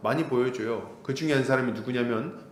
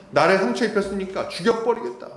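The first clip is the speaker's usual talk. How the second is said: Lamech's threat; 5 semitones higher than usual. Retold or imitated. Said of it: "이렇게 얘기하는 거예요".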